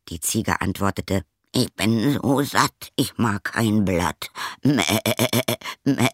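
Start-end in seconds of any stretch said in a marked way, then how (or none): 1.5-6.1 goat voice. Acted. Goat answers.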